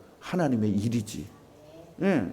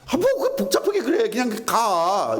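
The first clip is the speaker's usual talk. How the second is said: brusque Gyeongsang style; 8 semitones higher, 3 dB louder than usual. Retold or imitated. Preacher imitating his Gyeongsang-style wife, exasperated and dismissive. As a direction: mimic an impatient wife waving away complications. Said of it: "이런 스타일이에요".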